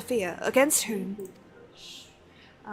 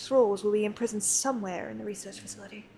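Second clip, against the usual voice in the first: lightly voiced scholarly NPC, measured and earnest; reading NPC lines. Streamer reading a scholar's quest dialogue to chat, lightly voiced. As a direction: read it like a lightly acted learned scholar.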